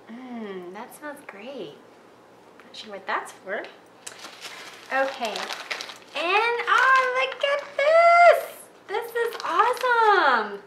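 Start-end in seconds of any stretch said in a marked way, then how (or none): 0.1-1.7 savoring a smell. Real, not acted. Sniffing soap from the box. 6.1-10.6 excited. Real, not acted. Finds gingerbread trailer kit.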